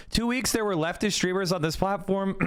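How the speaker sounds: strained, fading voice; losing voice. Real, not acted. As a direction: voice giving out. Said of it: "I'm losing my voice".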